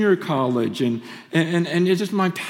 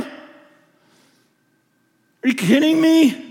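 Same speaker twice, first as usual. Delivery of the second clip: incredulous protest; 5 semitones higher, 4 dB louder, much slower than usual. Real, not acted. Outraged at grandmother's suffering.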